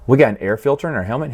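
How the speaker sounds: quick, puzzled question rising at the end; dim surprised question. Retold or imitated. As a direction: dumb clone just learning his helmet has a filter. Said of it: "He went".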